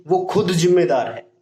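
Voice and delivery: खुद stressed with a touch of attitude; a teacher demoing an emphatic खुद. Shown as a demonstration. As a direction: say it like you mean खुद. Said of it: "कोई attitude के साथ कह रहा है ये बात".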